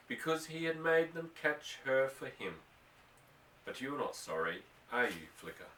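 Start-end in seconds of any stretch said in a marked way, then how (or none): 3.6-5.7 hushed, near-whispered question. Acted. Boy to his filly in the barn, softly hushed. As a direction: lean close and murmur it to the horse. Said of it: "he whispered".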